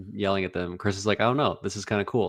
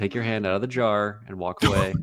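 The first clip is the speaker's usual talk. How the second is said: play-acted stern, strict fatherly voice. Retelling telling kids to stop taking candy: stern dad voice. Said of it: "your dad voice turned on".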